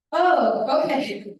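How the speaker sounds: real laugh through the words. Real, not acted. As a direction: laugh it off while answering. Laughing at friend's accent remark.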